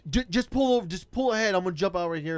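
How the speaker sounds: high, stammered urging; imitated nervous rider. Rider asking driver to pull ahead, mock nervous. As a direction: mimic an anxious passenger directing the car.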